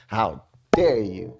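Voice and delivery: slow mock-indignant, leaning on "dare"; imitated indignant stress. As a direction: draw it out and drop onto "dare". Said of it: "that, that sound made that".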